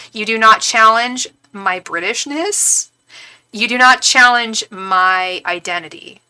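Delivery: slow, measured, emphatic warning; indignant warning. Retold or imitated. Teller defends her British identity, indignant warning. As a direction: lay down the law word by word.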